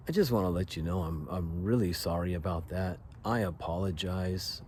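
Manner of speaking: soft, subdued apology; sincere apology. Retold or imitated. Apologizing to the man.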